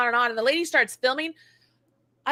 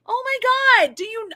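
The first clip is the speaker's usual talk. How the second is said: mock shock; 10 semitones higher, 3 dB louder than usual. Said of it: "And I'm like".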